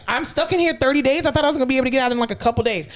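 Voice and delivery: high-pitched indignant disbelief; mock patient protest, high; dismayed patient. Acting out a patient's dismayed complaint.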